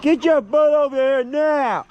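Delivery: high, slow, stern yell at a dog; angry call. Real, not acted. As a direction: bark an order at the dog. Ordering the dog to come.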